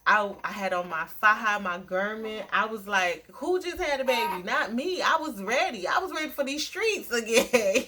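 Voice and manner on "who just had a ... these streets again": mock boastful excitement. Retelling her energetic post-birth self.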